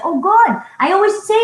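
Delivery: gushing praise. Retold or imitated. Reenacting her praise of him.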